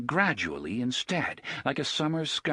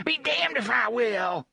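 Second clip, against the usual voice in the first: higher, forceful refusal; defiant outburst; 12 semitones higher, 4 dB louder than usual. Acted. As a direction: spit it back defiant. Gasher defiant.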